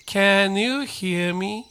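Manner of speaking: stretched out, n gliding into you; slow linked model. Shown as a demonstration. Teacher has students repeat "Can you hear me", slow and linked. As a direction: say "Can you hear me" slowly, "can you" joined as "kanyu". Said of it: "ちょっと言ってみてください".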